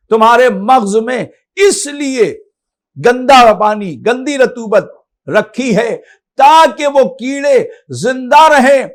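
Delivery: slow, drawn-out sermon delivery; stately, emphatic pulpit oratory; emphatic preaching. Acted. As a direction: declaim it slowly, weighting each phrase. Preacher declaims the imam's saying.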